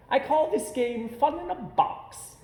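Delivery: high, bouncy showman cat; playful cat voice. A narrator's reading. Cat in the hat coaxing the bored children, high and playful. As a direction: coax the kids like a grinning trickster. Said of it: "said the cat".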